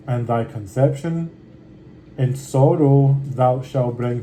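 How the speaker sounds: measured, unhurried Bible reading; scripture reading. Acted. Reading Genesis aloud to his viewers, steady scripture reading. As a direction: read the old words steadily and with care.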